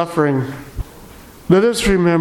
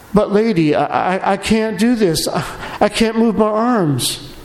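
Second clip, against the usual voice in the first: put-on higher, hesitant little girl; schoolgirl voice; 4 semitones higher than usual. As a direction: stammer it out like a scared child. Paralyzed girl voiced in legend.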